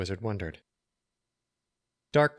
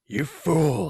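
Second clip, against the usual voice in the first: sharp, higher, louder snap at a fool; hissed rebuke; 7 semitones higher, 5 dB louder than usual. A narrator's reading. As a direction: spit out the insult in fury. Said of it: "he hissed".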